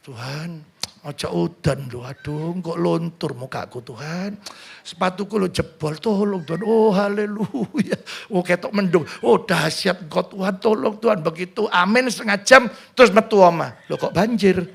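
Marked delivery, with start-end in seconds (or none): 0.0-6.6 mock fussy prayer. Preacher mocks a woman praying not to be rained on, softly. Women praying against rain, mocked. 6.6-11.2 mock ecstatic prayer. 13.9-14.6 amused mock surprise with a laugh. Preacher laughs voicing the person finding a flood.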